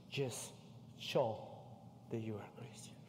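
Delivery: a sudden whispered aside. Real, not acted. Preacher whispering the point to the church. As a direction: drop to a whisper to drive it home.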